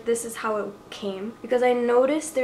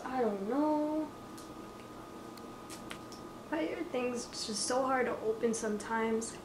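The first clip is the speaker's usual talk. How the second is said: ordinary delivery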